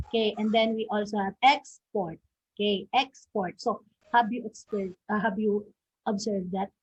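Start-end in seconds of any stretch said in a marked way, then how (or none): 1.4-2.2 "export" with EX stressed; stress on first syllable. Shown as a demonstration. Teacher introducing another example noun, first-syllable stress. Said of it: "the stress is on the first syllable". 2.9-3.6 EX stressed in "export"; stress on first syllable. Shown as a demonstration. Teacher repeating the example for students to observe, first-syllable stress. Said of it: "the stress is on the first syllable".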